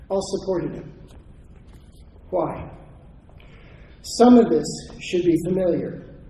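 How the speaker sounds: reading a prepared conference paper; measured, emphatic lecture delivery with deliberate pauses; formal speech. Real, not acted. Historian reads a paper on federal lands to an audience, formal speech.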